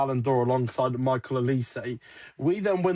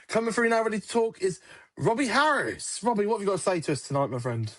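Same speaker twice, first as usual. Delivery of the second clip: mock local radio presenter, slightly raised pitch; radio phone-in host; 4 semitones higher than usual. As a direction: introduce a caller on air, lightly put on. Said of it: "I'll be on the line of Radio Norfolk".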